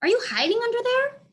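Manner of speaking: high, loud call. A narrator's reading. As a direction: coax the dog from hiding. Julia calling under couch.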